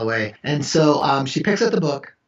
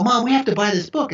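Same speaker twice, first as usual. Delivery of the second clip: put-on kid voice; 9 semitones higher, 3 dB louder than usual. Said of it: "they'll go".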